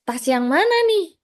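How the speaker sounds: lightly voiced puzzled young man; confused guy. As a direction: play the guy lost among three bags. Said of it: "kata si abangnya".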